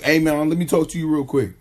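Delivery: thirsty pickup line. Retold or imitated. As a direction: rush the line like an overeager guy. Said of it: "I take that as being thirsty".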